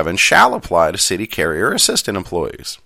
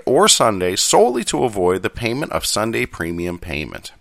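Hanna-Barbera cartoon accent. Shown as a demonstration. Host rereading so listeners understand, Hanna-Barbera accent. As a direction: read the contract like a Hanna-Barbera cartoon character. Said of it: "the Hanna-Barbera accent instead".

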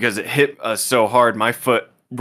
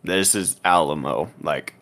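mock warning; 3 semitones lower than usual. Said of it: "this is where we say".

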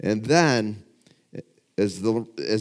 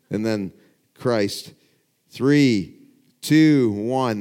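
dramatic countdown; 5 dB louder, slower than usual. Retold or imitated. Retelling a dramatic boxing countdown.

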